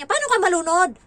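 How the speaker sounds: loud, high scolding shout; exasperated nanny yelling. Retold or imitated. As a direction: snap at the kid for overreacting. Scolding the child in shower.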